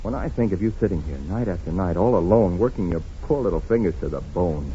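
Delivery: low, soft and loving; tender. Acted. Husband comforting his wife after the quarrel, low and tender.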